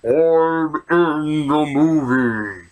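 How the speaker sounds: cameo voice. Acted. Cameo character voice in review.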